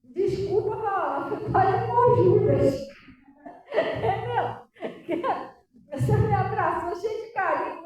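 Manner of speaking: high, loud exclaiming; loud preaching. Acted. Pastor exclaiming loudly to the congregation. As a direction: cry it out to the church.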